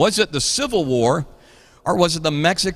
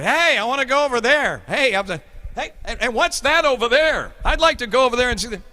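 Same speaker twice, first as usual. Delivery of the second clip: put-on eager kid at the fair; 6 semitones higher than usual. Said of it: "I'm like a guy, I'm like".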